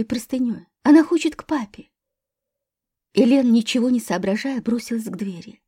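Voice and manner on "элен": ordinary delivery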